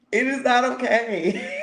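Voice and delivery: high, slow, emphatic protest; mock indignant refusal. Insisting to a friend it is not okay, mock indignant refusal. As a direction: stretch every word, ending on a rise.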